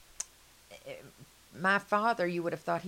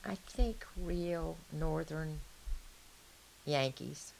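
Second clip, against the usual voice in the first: whispered; 3 dB quieter, slower than usual. Real, not acted. Confiding opinion about Yankees.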